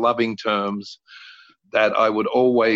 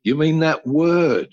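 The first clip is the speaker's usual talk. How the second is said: higher, slow dawning mother voice; mother catching on, higher and slower; mother realizing; 7 semitones higher, 4 dB louder, slower than usual. Retold or imitated. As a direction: let it dawn on her slowly. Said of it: "And she went".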